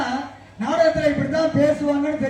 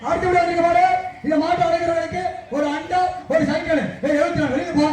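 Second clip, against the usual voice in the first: jallikattu announcer; 3 semitones higher than usual. Retold or imitated. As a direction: hype up the crowd like a bull-taming announcer. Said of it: "அதே மாதிரி பேசுவார்".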